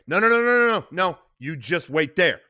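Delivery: Sonny telling Connie to stay put; urgent order. Acted. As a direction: cut off her pleading. Sonny tells Connie wait.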